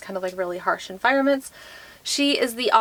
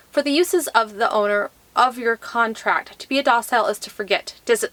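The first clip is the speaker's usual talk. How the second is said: measured, even read-aloud delivery; book blurb reading. Acted. Vlogger reads a book blurb to viewers, measured read-aloud. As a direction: read the back-cover copy aloud.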